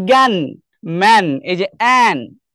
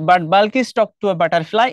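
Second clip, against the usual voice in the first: very slow, words spaced out; reading aloud slowly; much slower than usual. Shown as a demonstration. Teacher slowly reads the next poem line to students. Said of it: "reads poem line aloud".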